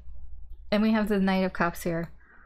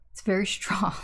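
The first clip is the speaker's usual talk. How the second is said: laughing whisper. Real, not acted. Laughing aside about the card.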